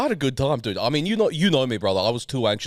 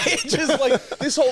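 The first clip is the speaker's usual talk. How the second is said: laughing; 13 semitones higher than usual. Real, not acted. Laughing while describing.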